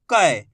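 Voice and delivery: "क" as a falling "ka-ey"; forceful "ai" syllable. Shown as a demonstration. Teacher answering how it is read, emphatically. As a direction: push hard into "क", said "kai". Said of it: "थोड़ा जोर लगाएंगे इसको उच्चारण में".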